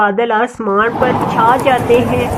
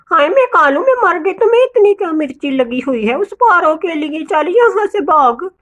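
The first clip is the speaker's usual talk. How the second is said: hammed-up quarrelsome snapping, slightly raised; mock indignation; 6 semitones higher, faster than usual. Gori quarrels with Kalu over Paro, indignant. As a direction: send a rival packing crossly.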